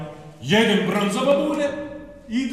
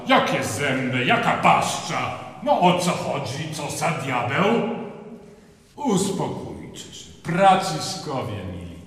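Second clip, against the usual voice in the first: Francis voice; 5 semitones lower than usual. Acted. Francis questions villagers.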